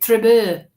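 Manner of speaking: "trouble" as "tree-BUH", falling; French-sounding word. Shown as a demonstration. Medium repeating the word the spirit gave, "trouble" as French-like tre-BEUR. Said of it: "it sounds like a French".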